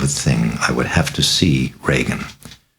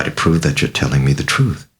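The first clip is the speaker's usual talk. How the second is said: ordinary delivery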